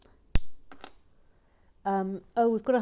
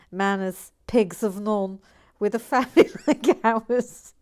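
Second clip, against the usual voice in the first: imitating a Scouse nan, louder, through laughter; hammed-up Liverpool grandmother in a Scouse accent; Scouse nan after a burp, proud and loud; 9 dB louder than usual. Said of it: "cue Scouse accent".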